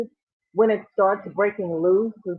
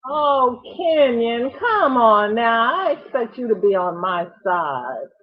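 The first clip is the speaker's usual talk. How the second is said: louder, drawn-out playful complaint; mock protest; 3 semitones higher, 5 dB louder than usual. Real, not acted. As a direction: tease the viewer for not taking her side. Playfully protests viewer's yarn comment.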